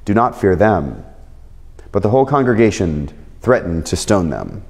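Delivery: measured, earnest Bible reading voice; scripture reading. Acted. Pastor reading Numbers to his church, earnest scripture reading. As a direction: read the verses to the congregation with weight. Reads scripture passage aloud.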